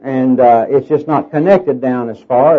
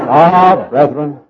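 imitating W A Criswell; 3 dB louder, slower than usual. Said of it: "sometimes W A Criswell".

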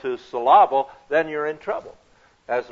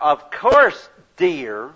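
sarcastic; 4 dB louder, much slower than usual. Retold or imitated. Husband sarcastic to his wife while sitting there. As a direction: turn a loving phrase into a knife. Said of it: "you've already learned a lot by the way that he says that".

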